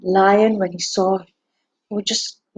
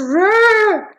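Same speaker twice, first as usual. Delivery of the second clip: rising, stretched roar like a lion; lion's roar; 9 semitones higher, 6 dB louder than usual. Acted. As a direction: draw the word out into a growling roar.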